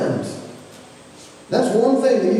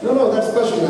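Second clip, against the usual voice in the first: imitating his boys; 5 semitones higher, faster than usual. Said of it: "That's how they say it".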